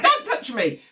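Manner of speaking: mild mock snap at a husband; lightly imitated irritation; angry wife. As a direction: act a touch of annoyance. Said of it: "when you're angry with your husband".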